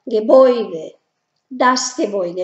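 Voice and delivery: Gebäude said as GEBOIDE; Gebäude with OI in the middle; German äu as OI. Shown as a demonstration. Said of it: "pasaría a ser también O I". (Gebäude pronunciado con OI)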